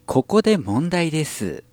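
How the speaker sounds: put-on high, slow haughty rich girl; Kurosawa Dia. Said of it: "ラブライブサンシャインの黒沢ダイヤさん".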